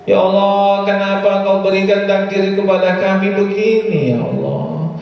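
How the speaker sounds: hammed-up lament to Allah; mock complaining prayer. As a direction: imitate someone bemoaning their fate. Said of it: "Itu namanya ngatur Allah itu".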